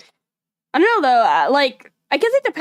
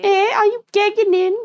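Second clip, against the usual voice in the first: put-on high, bright-ish copy of a Scouse accent; imitating Scouse; 9 semitones higher than usual. Viewer copying the Scouse question in an imitation Scouse accent. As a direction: try on the Liverpool sound. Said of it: "copying the Scouse phrase".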